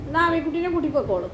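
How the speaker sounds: easy, falling instruction to a pet; gentle coaxing. Real, not acted. Telling Mikku to take Ami along, gently coaxing.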